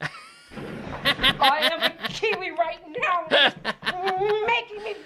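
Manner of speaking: laughing through the words; giggling through a silly claim. Acted. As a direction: speak while cracking up.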